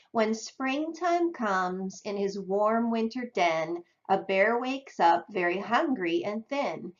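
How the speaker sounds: put-on slow read-aloud to children; reading a picture book aloud. Shown as a demonstration. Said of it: "Now contrast this with this".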